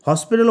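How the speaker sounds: হসপিটাল slowly broken as হস – পি – টাল; three separated beats in হসপিটাল; syllable by syllable. Shown as a demonstration. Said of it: "আমাদের এটাতে কটা syllable আছে".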